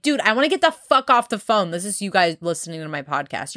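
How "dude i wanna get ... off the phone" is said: retold exasperation. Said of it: "and I'm like".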